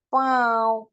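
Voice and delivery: पाँव drawn out with a nasalised vowel; noon ghunna. Shown as a demonstration. Urdu teacher demonstrating for learners, nasalised vowel. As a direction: let पाँव glide through the nose. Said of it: "जैसे नून गुन्ना है".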